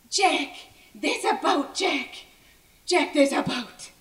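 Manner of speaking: tragic heroine sorrow. Acted. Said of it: "a little less breathy".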